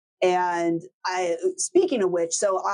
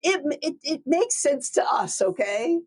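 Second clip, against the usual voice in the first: defensive retort; 8 semitones higher than usual. Retold or imitated. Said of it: "And I'm like".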